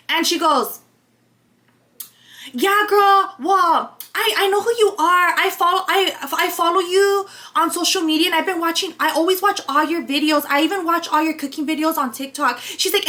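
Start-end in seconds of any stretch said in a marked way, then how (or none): 2.5-12.6 retold caller, a touch eager; imitating honored caller. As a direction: lightly mimic a follower who feels honored. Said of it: "she was a little honored or something".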